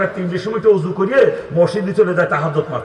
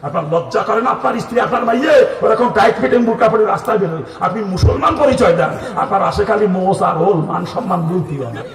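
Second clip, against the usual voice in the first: raised, loud preaching voice; forceful pulpit scolding; scolding rebuke; 4 semitones higher, 4 dB louder than usual. Real, not acted. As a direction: berate the congregation at a high pitch.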